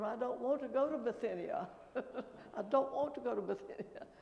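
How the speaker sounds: laughing mock protest; mock scream. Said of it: "I wanted to scream".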